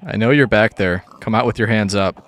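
loud playful cop command; mock police order. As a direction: call out like police cornering a suspect. Playing police at escaped mobs.

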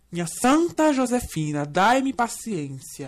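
slow, soft weary plea to heaven; exasperated prayer. Acted. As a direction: sigh it out to the saint. (prece exasperada)

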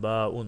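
"ba'un" in two syllables, long ba then un; wrong split reading. Shown as a demonstration. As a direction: say "ba'un" as letter name plus separate ending. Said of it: "Hayır".

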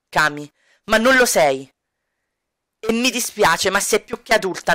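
a hint of a stern, tired man; Edo's voice. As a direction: coldly lay down the law. Edo answering Kami, voiced.

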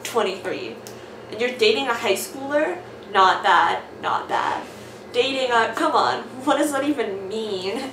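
loud, hammed-up character voices; switching accents clumsily. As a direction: swap voices for each character. Reading comic aloud with character voices.

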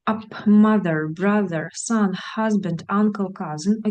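slow, careful English words for repeating; teacher modelling the short vowel; model pronunciation. Shown as a demonstration. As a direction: say each word clearly for students to copy. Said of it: "повторіть слова та звук".

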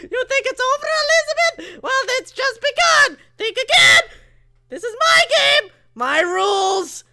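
high, hammed-up game character; cartoon villain voice. Game villain taunts Elizabeth, high gloating voice. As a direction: crow it in a high put-on voice.

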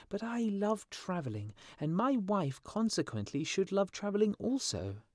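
high-pitched little bird character; complaining swallow. A narrator's reading. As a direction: grumble as a small lovelorn swallow. Swallow reasons about his love.

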